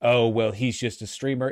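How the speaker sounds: a sighing, deflated brush-off; mock-dejected dismissal. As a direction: play it like a let-down critic shrugging. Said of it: "you know, dejected".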